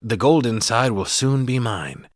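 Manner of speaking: singsong rhyming leprechaun voice; mock leprechaun verse, slowing at the end. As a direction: recite it like a scheming leprechaun. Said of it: "Back out to the leprechaun".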